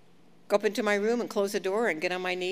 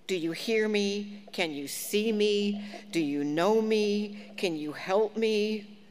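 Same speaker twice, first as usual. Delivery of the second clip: crying out; 3 semitones higher, slower than usual. Retold or imitated. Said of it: "David's been crying from the ends of the earth".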